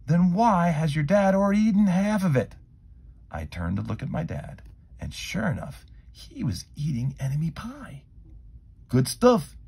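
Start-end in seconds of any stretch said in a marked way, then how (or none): 0.1-2.5 loud, high doubting question; skeptical boy. A narrator's reading. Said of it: "Jeremy asked". 8.9-9.6 mumbled through a mouthful; mouth full. A narrator's reading. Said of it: "he mumbled through ... a mouthful".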